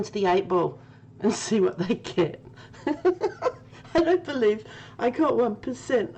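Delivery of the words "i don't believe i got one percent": slow, laughter-soaked words; laughing disbelief. Real, not acted. Still in disbelief at her one percent, slow laughing words. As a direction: say it while still cracking up. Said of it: "I'm crying".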